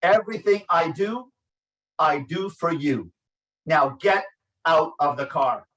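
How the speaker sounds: stern, firm order to the son; stern father. Retold or imitated. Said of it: "the father's stern voice".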